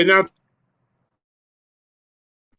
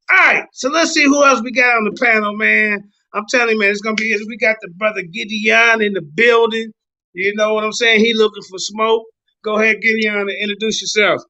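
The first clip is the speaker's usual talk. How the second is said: hype host; 6 semitones higher than usual. Real, not acted. Hyping up the panel.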